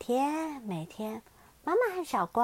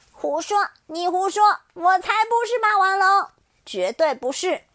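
loud, higher, indignant protest; angry denial; 7 semitones higher, 8 dB louder than usual. Acted. Xiaoliang refusing to be a T-rex, loud angry protest. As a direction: refuse it with all your might. Child denies angrily.

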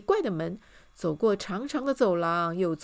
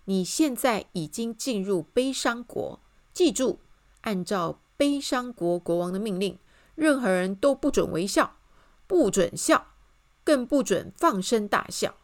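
louder, emphatic official notice; proclamation; 5 dB louder than usual. A narrator's reading. Narrator reads the old royal sign, proclaiming. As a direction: read it out as a firm decree. Reading the original notice aloud.

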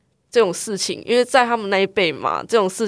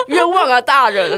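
mock plea; 4 semitones higher, slower than usual. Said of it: "我想说莫名其妙啊".

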